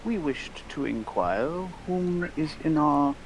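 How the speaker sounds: lightly voiced, measured formal gentleman; courteous in-character address; formal gentleman customer. Player speaks in character to shopkeeper.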